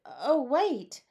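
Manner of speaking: high, startled exclamation; abrupt, high-pitched alarm; sudden realization. A narrator's reading. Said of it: "stopped suddenly and said".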